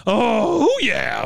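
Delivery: high, loud groan of effort falling into relief; triumphant groan. Retold or imitated. Recapper as patient finally reaching her chair, acted triumphant groan. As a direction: let out a high oh, then settle. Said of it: "when she gets there".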